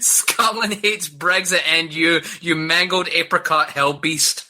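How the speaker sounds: put-on slow Scottish accent read; drawn-out put-on Scottish accent. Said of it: "I'll do the accent".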